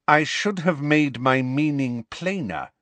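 measured schoolmistress rebuke; cold correction. Acted. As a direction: spell it out icily. McGonagall coldly correcting Umbridge.

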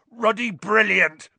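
big, loud booming giant's voice; booming Hagrid. A narrator's reading. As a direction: boom it over everyone's heads. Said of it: "boomed Hagrid".

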